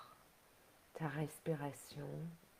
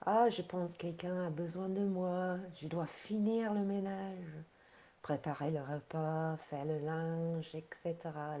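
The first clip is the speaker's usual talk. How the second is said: louder, mildly acted busy inner voice; harried to-do list; 3 dB louder than usual. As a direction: act out the never-ending chore list. Voices the endless to-do thoughts. (voix intérieure un peu débordée)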